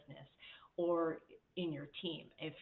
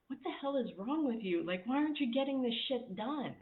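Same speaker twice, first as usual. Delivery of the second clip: higher-pitched, exasperated mock rant; frustrated boss; 5 semitones higher than usual. Manager scolding team for unfinished work, exasperated. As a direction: vent at slacking staff, half-playful. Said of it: "that frustrated mode".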